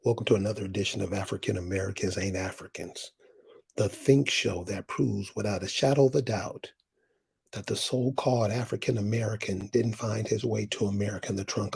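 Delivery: low, measured welcome to the show; show host intro. Acted. Host welcomes viewers to another edition, low announcer intro. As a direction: open the show low and unhurried.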